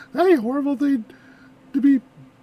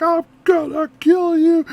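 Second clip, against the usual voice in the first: stretched-out, half-raised yell; mock threatening yell; 3 semitones higher, 5 dB louder, slower than usual. Reactor imagines people screaming in the middle of nowhere, mock yell. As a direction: imitate someone yelling a threat, drawn out. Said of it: "screaming and yelling and people are like".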